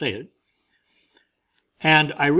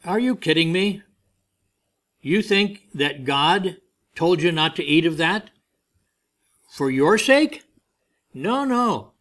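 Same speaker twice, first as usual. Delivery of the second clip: lightly voiced scoffing devil, pitch rising higher; mocking devil; 4 semitones higher than usual. Devil mocking Eve about God's command, a mild scoffing voice. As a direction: tempt her with a hint of scornful disbelief. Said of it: "And he said".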